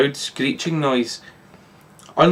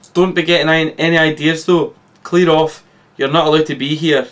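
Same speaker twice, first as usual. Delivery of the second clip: 1 snapping; 2 semitones higher than usual. Acted. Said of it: "snaps the Doctor".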